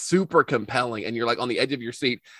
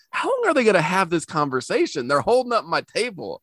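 annoyed waitress; 5 semitones higher than usual. Retold or imitated. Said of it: "that waitress is like".

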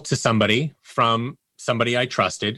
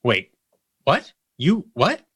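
imitating a startled, puzzled "wait, what", higher; a friend suddenly recognising their own feelings, mildly surprised; 3 semitones higher, slower than usual. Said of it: "people's would be like".

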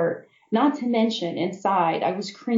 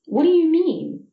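puzzled, higher and louder question; 10 semitones higher, 4 dB louder than usual. A narrator's reading. Sound honestly thrown by it. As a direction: friend confused by the remark, asks puzzled.

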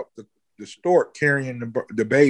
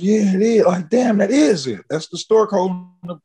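high, louder burst of realization; excited agreement; 7 semitones higher, 4 dB louder than usual. Retold or imitated. Agreeing with his friend about the omen, high and loud. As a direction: hit it high and louder, suddenly convinced.

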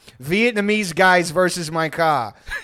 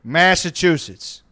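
louder, slow "Boston, Massachusetts"; insistent drunk; 4 dB louder, much slower than usual. Retold or imitated. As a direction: spell it out to the idiot, drawn out. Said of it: "He goes".

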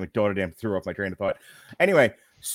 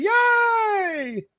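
mock cheer; 4 dB louder than usual. Cheer after host intro.

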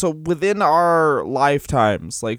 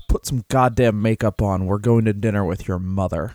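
low, mildly gruff husband act; lightly voiced grumpy husband; 5 semitones lower than usual. Canadian husband to spouse before dinner, lightly grumpy.

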